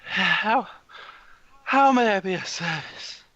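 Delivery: high-pitched winded woman; out of breath. Acted. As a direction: puff it out, trying to be of service. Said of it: "very out of breath woman".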